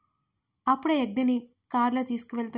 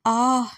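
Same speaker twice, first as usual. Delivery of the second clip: loud wailing cry out; anguished cry; 9 dB louder than usual. Acted. Heartbroken woman collapses, loud wailing cry. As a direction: let out a loud sobbing cry. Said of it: "గట్టిగా ఏడుస్తూ".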